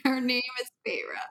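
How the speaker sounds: fast whispered secret agent line; mock spy whisper.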